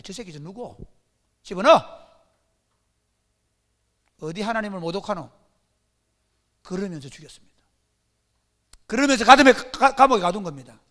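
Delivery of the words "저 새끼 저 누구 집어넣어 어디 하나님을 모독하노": angry officials. Acted. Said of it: "제사장들, 관원들".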